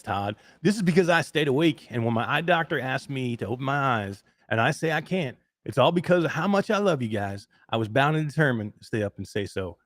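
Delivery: lightly put-on Tennessee accent; Tennessee hillbilly accent. Host reading grandma's chat message to co-host, mild Tennessee hillbilly accent. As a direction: read it with a hint of hillbilly twang. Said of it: "I did that in that accent".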